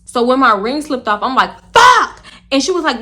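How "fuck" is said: high, loud yelp of a curse; retold curse. She sees her ring slip into the toilet, loud high yelp. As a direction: blurt it as the ring drops.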